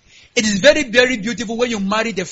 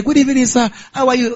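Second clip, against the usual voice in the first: very gentle. Pretend. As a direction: greet sweetly and meekly. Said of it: "Yeah, very gentle".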